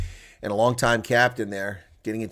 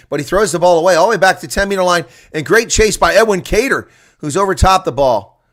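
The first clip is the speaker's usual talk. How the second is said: louder, higher commentary, racing along; louder, higher live call of a long chase; excited play-by-play; 7 semitones higher, 7 dB louder than usual. Acted. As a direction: ride the chase with the crowd rising. Calls a fast break live.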